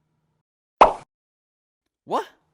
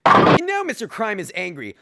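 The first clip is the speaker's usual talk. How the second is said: dramatic slow announcement; 2 semitones higher, 7 dB louder, slower than usual. A narrator's reading. Narrator announces anger.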